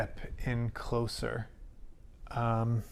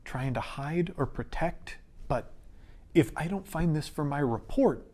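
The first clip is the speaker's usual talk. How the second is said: nervous, pleading, words tumbling faster; shaky plea; 3 semitones higher than usual. Acted. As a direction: plead with her, voice unsteady. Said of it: "and shakily goes".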